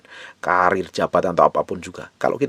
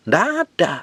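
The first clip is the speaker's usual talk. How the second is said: high exclaimed answer; 12 semitones higher than usual. Real, not acted. Preacher's rhetorical answer, high shout.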